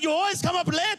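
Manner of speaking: high-pitched mock accusation; acted parental rant; imitated yelling dad. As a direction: scold like an angry dad, voice pushed high. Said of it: "So he's yelling at me".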